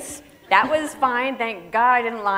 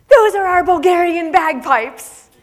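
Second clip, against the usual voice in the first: proud presenter; 10 semitones higher, 12 dB louder, slower than usual. Retold or imitated. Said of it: "and he's like".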